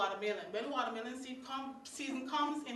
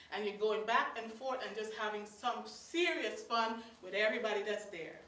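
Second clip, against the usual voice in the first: normal talking voice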